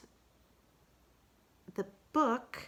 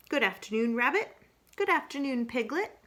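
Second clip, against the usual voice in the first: higher, louder polite greeting; Kanga greeting; 6 semitones higher, 3 dB louder than usual. Acted. Kanga politely greets Rabbit and Piglet, higher. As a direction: greet each friend sweetly by name.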